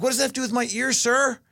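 high, baffled what-does-that-have-to-do; mock outrage, pitched well up; hammed-up protest to the doctor; indignant protest. Speaker's indignant retort retold.

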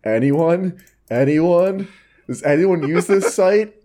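high, plaintive calling into the void; lonely forum poster. Retold or imitated. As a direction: call out hopefully to an empty room. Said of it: "the one immediately after is".

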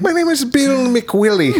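a put-on high, slow preacher introducing himself; hammed-up reverend, slowed down; lightly voiced preacher announcing his name; mock reverend voice. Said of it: "as Reverend Bill McWiley".

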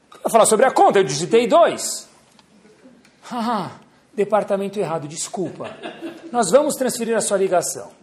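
high, loud sing-song operator; call centre agent. Retold or imitated. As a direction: play the chirpy agent cutting in. Agent and caller exchange on phone.

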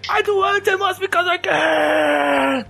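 high, crying shout; dramatic shout. Pretend. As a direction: belt it out like a breakdown. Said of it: "Não, nossa".

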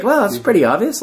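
knowing; dry amused reply. Retold or imitated. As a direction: tease the kid gently. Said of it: "he's just like".

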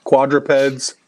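booming circus ringmaster call. Acted. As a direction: announce it like a ringmaster. Circus-style announcement.

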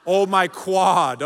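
lightly hammed-up sore-leg moan; mock groan. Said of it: "because it hurt walking up the stairs".

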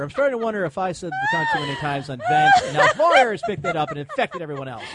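laughing loudly, pitch way up. Real, not acted. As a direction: laugh through the words. Laughing at own swearing.

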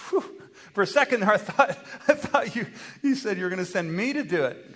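nervous chuckle. Acted. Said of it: "Nervous, chuckle everywhere".

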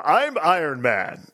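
slow, lightly voiced hero call-out; Iron Man line. Mocking the Avengers pinball call-out for friends, slow. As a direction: drawl it out like a cheap sound-alike. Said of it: "you don't look like Robert Downey".

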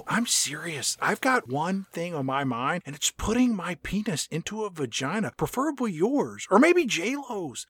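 soft-spoken, earnest come-on; lightly impersonated laid-back movie star; Owen Wilson. Acted. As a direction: quietly confess it, half-seducing a crewmate. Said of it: "and Wilson says".

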